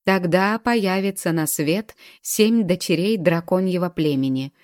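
lightly chanted prophecy line; measured, faintly singsong quotation; singsong recitation. A narrator's reading. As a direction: quote it as solemn verse, lilting. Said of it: "процитировал он нараспев последнюю строчку".

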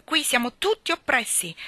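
high raving cry; shouting. A narrator's reading. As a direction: cry out as if persecuted.

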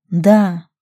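usual speaking voice

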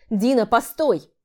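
loud slow call after her. Acted. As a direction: shout to stop her leaving. Running after her, calling out.

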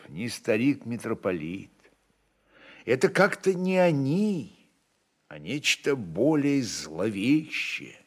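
ordinary delivery, nothing marked

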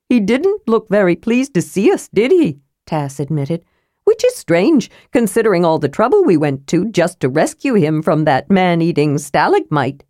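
cheerfully matter-of-fact; Tass the kender, chipper. Acted. Tass remarks.

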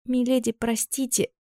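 soft, high, slow frightened plea; timid babbling. A narrator's reading. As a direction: stammer out an apology. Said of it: "пролепетала она".

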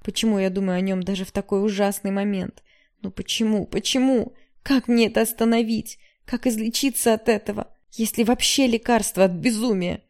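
pleading with herself, climbing in pitch; desperate outcry. A narrator's reading.

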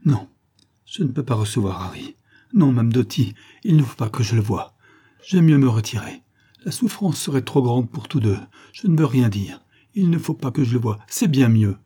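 mildly agitated, pained refusal; distressed refusal. Acted. Young woman refuses to see her beloved, mildly distressed. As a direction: refuse with a touch of anguish.

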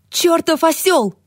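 high, slow, spat-out shout; furious yell. Acted. Toni yells at Billy for nearly drowning, high furious shout. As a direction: bawl him out for scaring her. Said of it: "заорала она".

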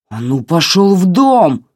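slow, loud angry command to the dog. A narrator's reading. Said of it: "возвысил голос Митин отец". (отец повышает голос на пса: медленно, громко)

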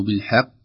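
"بالحق" with a laboured, thickened final ق; overdone qaf. Shown as a demonstration. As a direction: force the "qi" at the end of "بالحق" heavy. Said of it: "تكلف نفسك وتشتت".

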